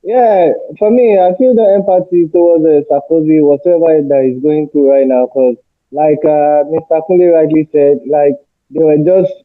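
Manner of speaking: muffled, dull sound from a distant mic. Real, not acted. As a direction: voice muffled as if covered. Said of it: "You sound muffled".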